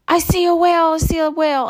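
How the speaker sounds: high, loud, thrilled calling out; a kid yelling his big discovery; excited shout. Retold or imitated. Son calls out spotting a whale at the cove, high excited shout.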